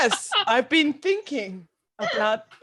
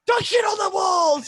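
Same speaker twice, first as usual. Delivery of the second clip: shouted sign; 6 semitones higher than usual. Acted. Demon quoting sign.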